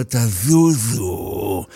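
low, slow, drawn-out command; deep heroic order to step aside; determined Jacob. Acted. Jacob orders the crowd aside, low and slow.

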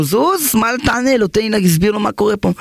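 angry guest snapping at the man holding him back; irritated retort. Acted. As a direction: brush him off impatiently. Angry man brushes off the pleader.

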